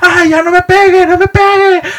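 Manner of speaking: mock shrill, very high wailing crying scream. Recalling being interrogated, the speaker acts out his past self, retelling a scream. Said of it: "yo gritaba".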